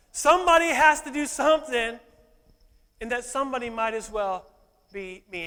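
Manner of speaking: preacher unleashing pent-up sermon; preaching burst. Acted. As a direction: blast the first phrase then drop.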